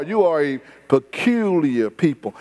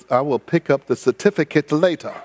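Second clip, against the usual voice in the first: maitre d'; 5 semitones lower than usual. Retold or imitated. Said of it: "And the maitre d' said".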